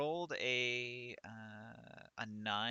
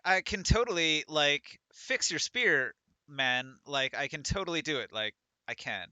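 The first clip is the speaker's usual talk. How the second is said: put-on louder, gushing valley girl; a light valley girl lilt; 4 dB louder than usual. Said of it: "him saying, like".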